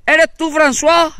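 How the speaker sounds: high, loud, slow call across the field; sly calling out. Retold or imitated. Spaniard tricking the French soldier, high slow sly call. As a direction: lure him out with a drawn-out sweet call. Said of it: "salta el español y dice".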